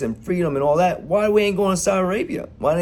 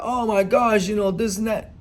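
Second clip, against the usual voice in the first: higher-pitched imitation of fretful people; mock dismay; 6 semitones higher than usual. Mimicking people who lament over Afghanistan, mock dismay. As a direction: mimic their hand-wringing in a higher voice.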